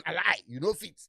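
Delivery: loud, laughing call of disbelief; mock disbelief. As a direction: shout down the boast as a lie. Mocking a boastful rich man.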